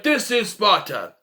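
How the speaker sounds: slow mock-British line reading; British accent. Mocking Leonidas' British delivery in the film, British accent. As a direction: imitate a British-accented Spartan, drawn out. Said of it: "Why do they talk like they're British?".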